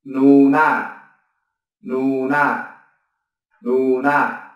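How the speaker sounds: "nuna" with both syllables even and a falling end; Korean word demo. Shown as a demonstration. Teacher modelling the Korean word for sister, clear and falling. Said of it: "Ví dụ từ chị trong tiếng Hàn là".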